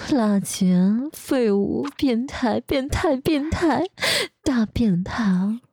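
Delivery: escalating insults. Acted. Escalating name-calling.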